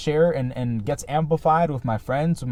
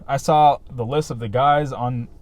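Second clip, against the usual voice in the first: talking through hiccups; hiccuping; 3 dB louder than usual. Real, not acted. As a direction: hold back hiccups mid-sentence. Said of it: "sorry, I'm hiccuping".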